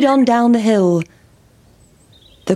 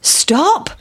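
higher sheep voice; sheep calling; 8 semitones higher than usual. A narrator's reading. Sheep calling to the passing pancake, higher. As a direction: bleat out stop. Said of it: "said the sheep".

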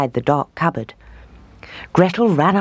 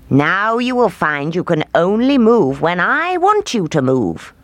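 put-on raised, commanding old witch; 4 semitones higher than usual. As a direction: cast the spell with menace. Witch speaking.

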